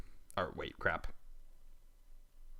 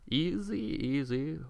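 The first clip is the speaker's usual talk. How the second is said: soft, slow soothing voice; calming; 5 dB quieter, much slower than usual. Acted. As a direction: hush an overexcited child gently. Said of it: "You pick her up and calm her".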